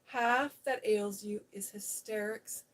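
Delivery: loud stern scold; fierce scolding. Acted. Mary scolds Colin for his hysterics. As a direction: lay down the law. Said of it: "shouted Mary".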